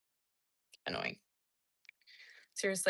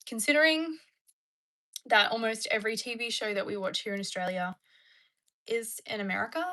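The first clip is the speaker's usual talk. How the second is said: demonstrated American accent; 4 dB louder than usual. Shown as a demonstration. Streamer answering whether they can do it, American accent. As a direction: put on an American accent to show it's easy. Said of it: "Can I do an American accent?".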